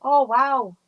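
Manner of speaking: delighted wow. Real, not acted. Reacting to a viewer's comment.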